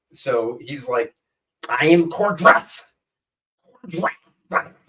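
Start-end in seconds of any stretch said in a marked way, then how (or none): 1.7-4.7 slow, halting, laboring voice with speech impediment. Asked what Cordrath's accent sounds like, Cordrath voice with speech impediment. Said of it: "Cordrath had a speech impediment growing up".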